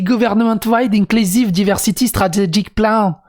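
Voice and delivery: put-on the phrase said in a broad French accent; mocking critics who say he sounds too French. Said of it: "il parle qu'avec un accent français". (accent français appuyé)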